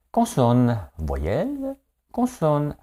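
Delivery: high-pitched imitation of a contestant calling letters; game-show contestant. Host mimicking a TV word game, high contestant voice. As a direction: call each letter choice in a high quiz-show voice. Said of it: "Des lettres et des mots".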